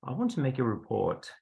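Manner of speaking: softly imitated proper accent; quiet, proper-accented official making a complaint. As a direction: put on a mild, proper accent. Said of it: "in his, uh, proper accent".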